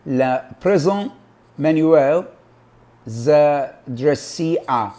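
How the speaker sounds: slow, careful French with English accent; foreign accent in French. Shown as a demonstration. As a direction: read the French phrase slowly, English-accented. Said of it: "apologies for my, uh, bad pronunciation".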